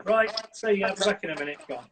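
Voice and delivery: just say it and go, no fuss; matter of fact. Shown as a demonstration. Dog expert demonstrating a casual exit, matter of fact. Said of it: "very matter of fact".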